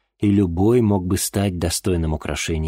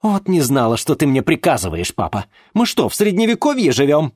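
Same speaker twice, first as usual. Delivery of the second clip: high, loud sarcastic retort; mock his orders; indignant daughter; 9 semitones higher, 5 dB louder than usual. Daughter answers back angrily.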